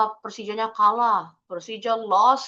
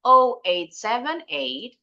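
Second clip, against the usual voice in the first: slow "Oh eight seven eight", ending upward; rising intonation; 3 semitones higher, 4 dB louder, slower than usual. Shown as a demonstration. Teacher repeating the phone number for students, rising intonation. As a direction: lift the last "eight" of "Oh eight seven eight", number unfinished. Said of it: "intonasinya naik".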